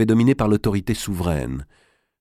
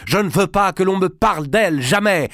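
much higher, louder shouted refusal; furious high cry; 12 semitones higher, 4 dB louder than usual. Acted. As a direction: cry it out in anger. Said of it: "cria-t-il".

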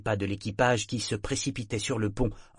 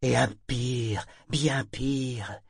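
slow, louder, bitter warning from the wrecked ship; menacing ship's voice; 4 semitones higher, 5 dB louder, slower than usual. Acted. The ship Parangon warns the men away, menacing. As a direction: loom over them, each word a threat.

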